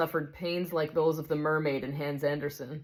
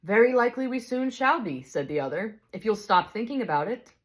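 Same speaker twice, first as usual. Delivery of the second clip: a touch higher, calm and kindly; gentle bright spirit; 5 semitones higher than usual. Acted. Bright spirit calmly answers the big ghost, kindly.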